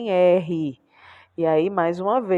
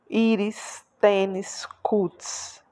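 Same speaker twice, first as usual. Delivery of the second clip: Íris, tênis, cutis, each leaning on its first syllable; stress on penultimate syllable; much slower than usual. Shown as a demonstration. Teacher illustrating the rule, stress on the first syllable of Íris, tênis, cutis. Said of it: "percebam que a sílaba tônica é a penúltima".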